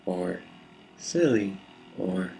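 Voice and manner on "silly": varied delivery. Shown as a demonstration. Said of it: "say the word silly in many different ways".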